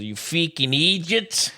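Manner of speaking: put-on a light British accent on You freaking idiots, slow; British accent catchphrase. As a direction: try out a British lads' phrase in an accent, slow. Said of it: "you're horrible at accents".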